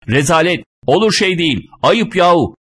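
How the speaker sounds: high-pitched crowd outrage; indignant agreement. A narrator's reading. Crowd backs the passenger's complaint, indignant. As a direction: chime in with scandalized protest. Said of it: "Kalabalık beni tasdik ediyordu".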